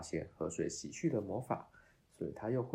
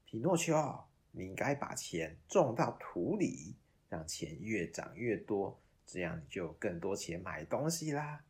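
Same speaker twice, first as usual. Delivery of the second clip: sly persuasion; 4 dB louder than usual. Acted. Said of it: "不安好心地说".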